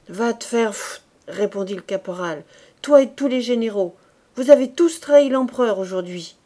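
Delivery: loud, contemptuous soldier's insult; angry retort. Acted. Corporal cursing the general who betrayed the emperor, loud and scornful.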